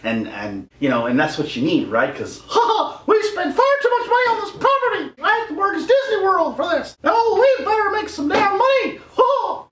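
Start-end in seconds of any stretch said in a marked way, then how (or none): 2.2-9.7 much higher cackling studio boss voice; mock greedy executive. Mocking Disney bosses to viewers, high gloating laugh. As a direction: play a gloating money-hungry executive, laughing.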